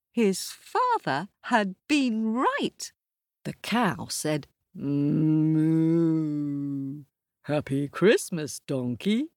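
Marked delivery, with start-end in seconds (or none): 4.7-9.3 lightly voiced cow with a moo; a friendly cow greeting her barnmate. Cow character.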